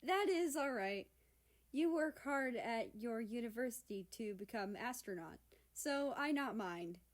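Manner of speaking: lightly voiced Fijian-accented broken English. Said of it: "her broken English poking through".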